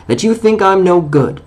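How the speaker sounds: a hint of wounded pride in his voice; on his dignity. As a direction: answer proudly, offended but polite. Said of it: "being on his dignity".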